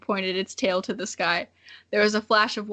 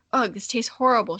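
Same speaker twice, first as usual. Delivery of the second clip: growled. Acted. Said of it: "she growled".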